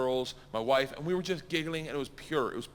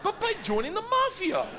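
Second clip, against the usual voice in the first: high, louder, laughing through the words; real laughter while telling it; 13 semitones higher, 3 dB louder than usual. Real, not acted. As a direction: giggle out the punchline. Laughing at his own story.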